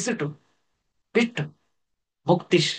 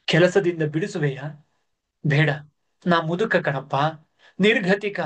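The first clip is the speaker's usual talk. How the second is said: humble pleading; 2 semitones higher than usual. Acted. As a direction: beg meekly for mercy. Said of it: "ದೈನ್ಯದಿಂದ". (ದೈನ್ಯದಿಂದ ಬೇಡುವ ಮುದುಕ)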